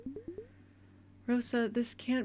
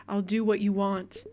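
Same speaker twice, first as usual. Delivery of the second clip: angry; 6 dB louder than usual. Acted. Daughter gives in mid-fight.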